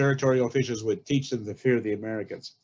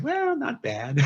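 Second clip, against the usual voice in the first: laughing, not bad; 12 semitones higher, slower than usual. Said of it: "And she said".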